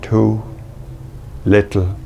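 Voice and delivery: measured, unhurried poetry reading with long pauses; earnest recital, building through the "too many" lines and falling away at the end; poem reading. Acted. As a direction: read it as a poet reads his own verse, letting each image settle. Reads his poem aloud.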